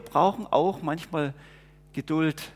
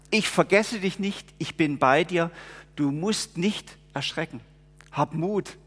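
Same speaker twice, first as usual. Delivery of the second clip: reassuring words of Jesus. Acted. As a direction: speak comfort to someone afraid. Speaks Jesus's comfort personally.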